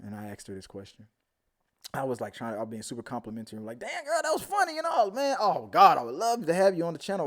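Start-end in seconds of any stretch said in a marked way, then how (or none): 3.8-7.2 mock gushing. His overeager DM retold.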